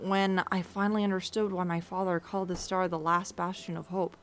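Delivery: put-on solemn dragon with rough Russian accent; measured speech in an unsure Russian-like accent; attempted Russian accent. Dragon recalling its father's words, amateur Russian accent. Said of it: "I'm trying to do an accent".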